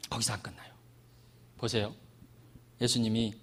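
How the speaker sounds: voiceless, dramatic hush; whispered reveal. Real, not acted. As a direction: drop to a whisper for suspense. Dramatic hushed turn.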